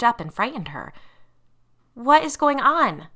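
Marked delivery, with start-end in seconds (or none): 1.9-3.1 high, loud, alarmed demand. A narrator's reading. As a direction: demand an explanation, voice raised. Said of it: "she demanded".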